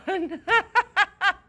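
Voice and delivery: loud, high cackle of delight; can't hold back the laugh; burst of laughter. Real, not acted. Player finds the snoring troll and bursts out laughing.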